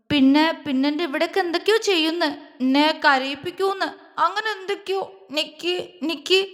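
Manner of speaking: high, halting, frightened plaint; fearful. A narrator's reading. Frightened wife confides in her husband, fearful. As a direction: trail into scared, broken fragments. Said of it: "പേടിയോടെ അവനോട് പറഞ്ഞു".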